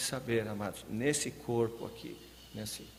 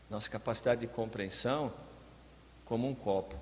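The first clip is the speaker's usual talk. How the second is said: normal talking voice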